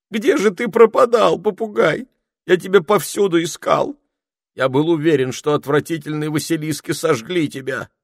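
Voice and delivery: high, loud anxious questions; high-voiced wizard fussing over the parrot. A narrator's reading. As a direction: pour out relief and worry.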